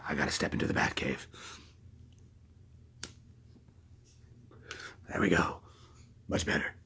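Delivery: low, near-whispered aside; hushed aside. Pretend. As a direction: drop to a soft undertone. Steps away into his Batcave.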